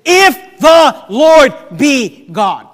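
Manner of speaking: loud, slow, word-by-word declaration; exasperated prophet's shout; frustrated. Acted. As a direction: hammer out each word separately. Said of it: "where I really sense the frustration".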